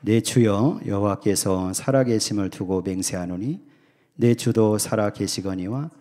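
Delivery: slow, solemn reading of the verse; measured reading from the pulpit; scripture reading. Shown as a demonstration. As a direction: read it out like scripture, unhurried. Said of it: "한번 먼저 읽겠습니다".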